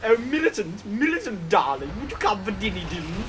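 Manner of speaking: posh mother. Pretend. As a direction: call the child in for dinner, poshly. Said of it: "Sounds like a really posh kid's name".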